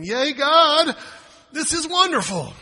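high, loud fake delight; mock cheer. Pastor mocking a cheerful reaction to trials, high loud. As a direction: cheer it falsely, over the top. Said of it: "my first response is not going".

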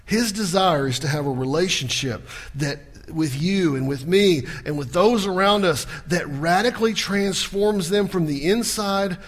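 ordinary delivery

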